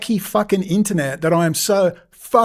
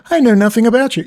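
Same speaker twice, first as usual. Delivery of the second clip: higher mock-clueless interviewer; mocking quote; 4 semitones higher, 4 dB louder, faster than usual. Ranter mimicking a host who never looked up his guest, mocking. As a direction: imitate the interviewer, pitched up and mocking.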